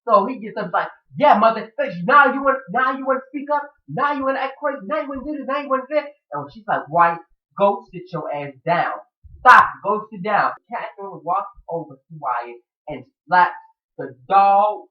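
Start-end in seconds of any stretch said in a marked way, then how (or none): 1.2-6.1 high, heated mock confrontation; acted taunting challenge. Man jumps up to challenge someone, high mock taunting. 6.9-10.5 slow, weighty mock order; stern command. Woman orders Wyatt to sit down, slow acted command.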